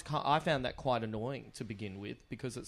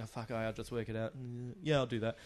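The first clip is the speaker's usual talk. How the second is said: quiet inner thought; 5 semitones lower, 9 dB quieter than usual. Retold or imitated. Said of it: "I think".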